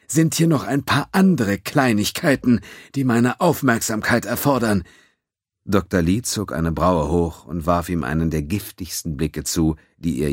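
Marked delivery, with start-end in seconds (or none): 0.1-4.8 mock-polite apology with a sneer; sarcastic. A narrator's reading. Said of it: "Seine Stimme nahm einen sarkastischen Tonfall an".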